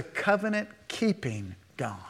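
whispered reverent aside. Real, not acted. Preacher whispering to the congregation about God's faithfulness. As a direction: breathe it out as a secret.

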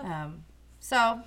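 talking between sips of tea; while sipping a drink. Real, not acted. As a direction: say it with a sip of tea at your lips. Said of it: "sorry if you can hear me drinking".

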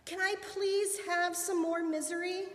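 high, eager calling voice; yelled-out call. A narrator's reading. Monkey at treetop begging Papa God, yelled-out call. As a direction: call up to heaven, pitched well up. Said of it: "yelled out".

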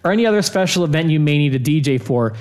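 upbeat sponsor ad read. Acted. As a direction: read it like a radio ad. Reads sponsor ad.

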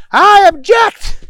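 high, drawn-out courtroom shout; yelled objection. A narrator's reading. Booger interrupting the trial, high loud yell. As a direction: yell it out, stretching the words. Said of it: "he yelled out".

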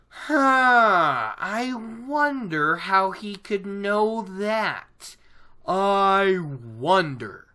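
drawn-out, exaggerated musing; mock wondering. Host teasing listeners about a coming reveal, mock wondering. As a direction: play innocent, stretching out the wonder.

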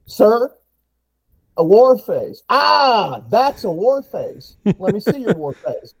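high, loud mock war face cry; drill sergeant bark.

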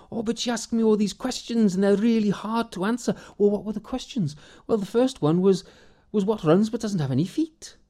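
high, eager voice of a simple fellow; simple kind villager. Acted. Morgan tells his wife the riddles in a high, eager voice.

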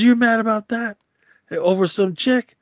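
scornful disbelief. Retold or imitated. Nino mocking G Money's complaint.

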